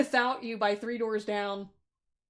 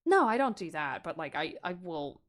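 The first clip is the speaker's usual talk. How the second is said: put-on aggressive older sibling; 6 semitones lower, 5 dB quieter than usual. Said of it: "like, aggressive tone".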